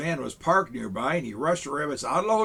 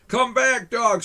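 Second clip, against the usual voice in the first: high, loud call after the dog; mayor calling his dog back; shouting; 8 semitones higher, 6 dB louder, slower than usual. Acted. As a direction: yell it to the runaway dog. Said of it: "shouted Mayor Huff".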